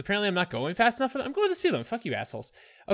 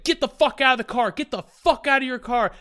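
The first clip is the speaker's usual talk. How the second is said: raised, louder mock yell; imitated yelling; 3 semitones higher, 4 dB louder than usual. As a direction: mimic an aggressor ordering someone out. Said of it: "He's yelling at me".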